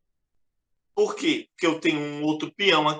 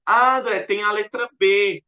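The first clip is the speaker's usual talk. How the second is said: student voice; 4 semitones higher, 4 dB louder than usual. Acted. Teacher voices a student's answer.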